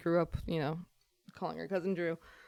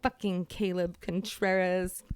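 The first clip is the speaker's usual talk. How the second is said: imitated rant; 6 dB louder than usual. Friend retelling a crazy man's mayonnaise outburst, imitated rant. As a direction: imitate a ranting man, stretching the words.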